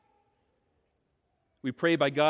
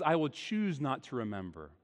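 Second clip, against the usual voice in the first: soft voice of God; 3 semitones lower, 5 dB quieter than usual. Acted. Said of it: "But God says".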